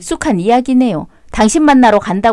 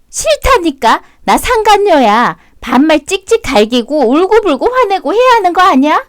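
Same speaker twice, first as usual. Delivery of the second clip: provoking taunt; 5 semitones higher than usual. Acted. Mistress taunting wife to react.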